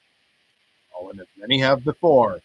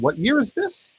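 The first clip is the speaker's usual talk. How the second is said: surprised; 11 semitones higher, 3 dB louder than usual. Real, not acted. Surprised Fight NYC still exists.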